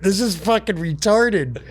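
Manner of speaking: can't keep a straight face on the punchline; half-laughed mock complaint; laughing through it. Acting Michael's drunk confusion.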